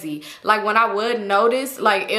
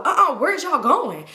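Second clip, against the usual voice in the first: imitating the guy; 6 semitones higher than usual. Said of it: "'cause he was like".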